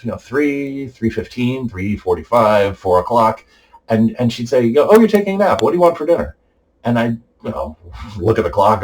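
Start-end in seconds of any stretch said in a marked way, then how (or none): 4.6-6.4 high-pitched mimicry of mom; imitated chirpy mother. Mother asking her sleeping son about dinner at night, imitated chirpiness. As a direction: voice an oblivious mother, pitched well up.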